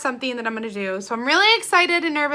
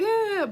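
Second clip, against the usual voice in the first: sob sound; 9 semitones higher than usual. Shown as a demonstration. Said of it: "Not, like, sobbing".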